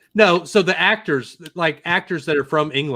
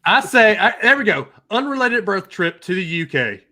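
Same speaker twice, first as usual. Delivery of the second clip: hammed-up English accent, pitched up; put-on English accent; 5 semitones higher than usual. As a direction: launch into a theatrical mock English accent. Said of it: "I love how your English accent".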